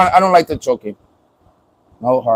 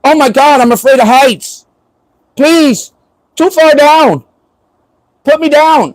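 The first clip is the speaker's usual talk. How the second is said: higher, whiny "put me down" panic, half-joking; mock scared girlfriend; 7 semitones higher than usual. Boyfriend mimicking girlfriend scared of heights, mock panic. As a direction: play her squealing about heights while being lifted. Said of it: "she's gonna be like".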